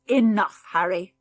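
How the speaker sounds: a loud, stern rebuke; stern father. Acted. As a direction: shut the boy down firmly. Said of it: "in such a stern voice".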